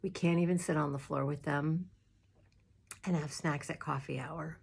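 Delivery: soft, hushed, near tears; quiet and fighting tears; holding back tears. Real, not acted. Minister missing her congregation, softly near tears. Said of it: "I'm gonna start crying".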